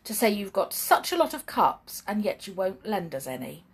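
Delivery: put-on lively read-aloud for children; storybook reading. A narrator's reading. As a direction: tell it like a bedtime story.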